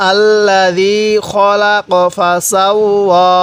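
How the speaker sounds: slow drawn tajweed chant of আল্লাযী খলাক ফাসাওয়া; slow recitation. Shown as a demonstration. Teacher leading the verse recitation, slow chant. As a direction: recite it slowly for the class to follow. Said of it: "আরেকবার আমার সাথে পড়ুন".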